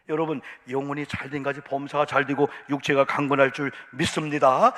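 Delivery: ringing proclamation of blessing; loud blessing. Real, not acted. Preacher pronouncing a blessing loudly over the congregation. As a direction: declare it over them, full voice.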